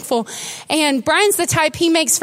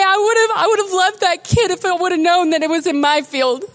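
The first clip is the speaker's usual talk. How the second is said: tearful; 2 semitones higher than usual. Real, not acted. Preacher tells church of regret, tearful. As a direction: voice wet with tears.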